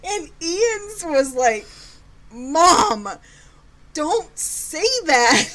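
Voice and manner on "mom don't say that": high, drawn-out mock protest; animated son. Son objecting to his mom's crude joke, animated mock protest. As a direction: imitate an animated kid scolding mom. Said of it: "He's very animated".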